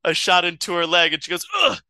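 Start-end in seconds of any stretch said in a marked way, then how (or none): 1.6-1.8 short acted grunt of pain. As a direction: grunt as if just shot. Wife is shot in the story.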